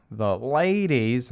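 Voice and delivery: slow, drawn-out Boston ladies; a light mock Bill Burr; Bill Burr impression. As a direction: lean into a Bill Burr drawl. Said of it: "that's how Bill Burr says".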